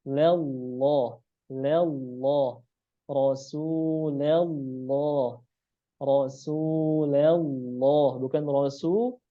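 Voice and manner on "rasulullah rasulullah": Rasulullah drawn out slowly, heavy lam; slow model recitation. Shown as a demonstration. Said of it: "Harusnya la".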